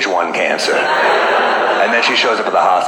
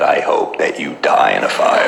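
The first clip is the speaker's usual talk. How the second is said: deadpan curse; 4 semitones lower than usual. Retold or imitated. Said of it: "It was a little subtle".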